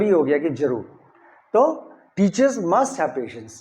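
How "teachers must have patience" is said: MUST picked out in a slow, measured sentence; slow, deliberate line with emphasis on "must"; stress on must. Shown as a demonstration. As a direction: say it slowly, leaning on "must". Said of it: "must पे stress देंगे".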